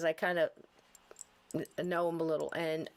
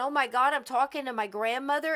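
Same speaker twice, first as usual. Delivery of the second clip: excited mock tears; 3 semitones higher than usual. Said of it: "where you were crying and going".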